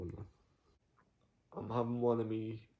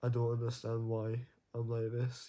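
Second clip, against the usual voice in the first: talking through real tears, a little raised; puzzled, teary voice while crying. Real, not acted. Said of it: "I don't even know why I'm crying right now".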